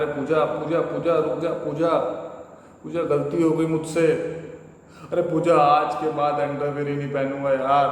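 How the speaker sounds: husband begging wife through the door, calling out. Acted. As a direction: call after her as she leaves.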